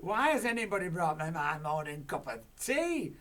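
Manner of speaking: a giantess demanding breakfast; shouted. Acted. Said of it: "she shouted".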